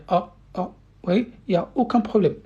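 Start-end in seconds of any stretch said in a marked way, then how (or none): 0.1-0.7 softer "Ah, ah" with the mouth wide open, breath flowing out; demonstrated open a. Shown as a demonstration. Teacher showing the easy fatha sound, mouth open, breathing out. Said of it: "il faut ouvrir la bouche et expirer de l'air".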